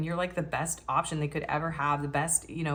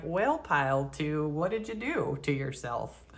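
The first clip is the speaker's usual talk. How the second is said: slow, teasing scold; cheeky. Pretend. Psychic teasing the pile, slow cheeky scolding. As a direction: tease the pile, drawing out the words. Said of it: "I'm getting real cheeky".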